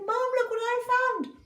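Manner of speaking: high, loud excited shout; excited boy. Acted. Jack showing his mum the goose, high and excited. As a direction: burst in with the news.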